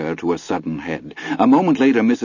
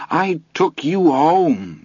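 crying out; 8 semitones higher, slower than usual. A narrator's reading. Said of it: "Missus Kelly cried".

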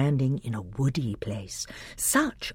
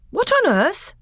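much higher, louder startled cry; startled exclamation; 5 dB louder than usual. Acted. Peter cries out in surprise as magic grips him. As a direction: blurt it in alarm.

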